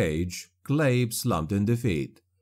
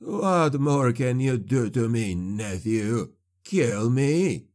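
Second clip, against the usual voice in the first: defiant sorcerer; slower than usual. Acted. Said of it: "Clabe challenged".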